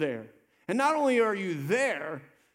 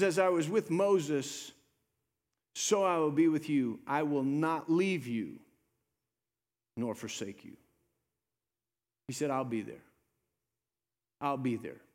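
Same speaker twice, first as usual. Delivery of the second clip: solemn reassurance; 6 semitones lower than usual. Retold or imitated. Preacher quoting God's promise to be with you, solemn reassurance. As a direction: let the promise settle, low and unhurried.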